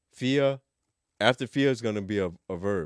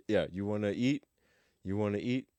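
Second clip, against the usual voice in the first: ordinary talk, nothing marked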